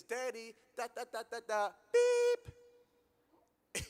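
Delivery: put-on high, loud child's yell up the stairs, the curse bleeped out. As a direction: shout it like the little girl from upstairs. Daughter yells curse downstairs, bleeped.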